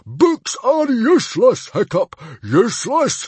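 high, loud scornful tirade; furious. Acted. Chief dismissing books to his son, furious. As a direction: rant with blustering scorn. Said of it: "he snorted furiously".

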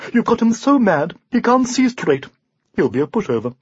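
a hint of a confident unicorn voice; lightly voiced steed. The unicorn reassures his worried knight, lightly voiced. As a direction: reassure the rider calmly.

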